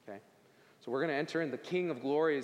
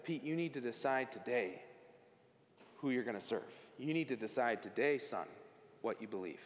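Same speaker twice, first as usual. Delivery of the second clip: tearful dad; 3 semitones lower, 4 dB quieter than usual. Retold or imitated. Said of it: "he had tears in his eyes".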